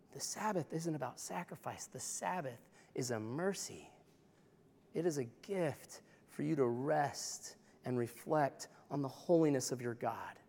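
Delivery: tender. Real, not acted. Preacher softens on the gift of rest.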